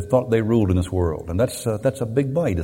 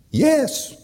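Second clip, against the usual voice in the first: higher, distant voice from above; otherworldly voice. Retold or imitated. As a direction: answer like a voice from heaven. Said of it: "this otherworldly voice comes back".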